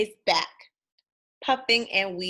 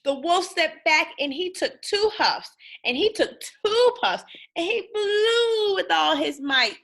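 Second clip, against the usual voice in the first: mounting effort; 7 semitones higher, 3 dB louder than usual. A narrator's reading. Wolf blows hard.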